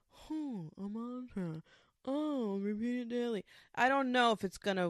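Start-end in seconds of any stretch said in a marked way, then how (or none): 0.1-3.4 musing realization. Retold or imitated. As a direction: act out an idea dawning on you. Acts out own moment of discovery.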